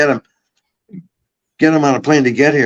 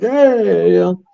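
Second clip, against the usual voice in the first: excited hey; 7 semitones higher, much slower than usual. Retold or imitated. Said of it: "I'm like".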